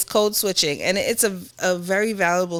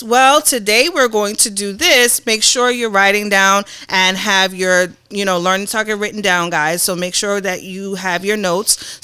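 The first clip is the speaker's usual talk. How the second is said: teacher voice. Shown as a demonstration. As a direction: address the class like a teacher. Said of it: "in my teacher voice".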